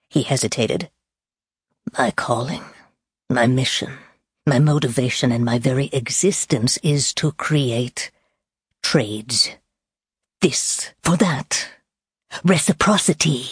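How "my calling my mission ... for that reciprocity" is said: sinister villain voice. Acted. Villain's creed.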